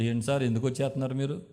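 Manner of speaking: lightly voiced friend talking him round; counseling friend. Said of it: "counselling మొదలెట్టాడు". (సున్నితంగా నచ్చజెప్పే స్నేహితుడు)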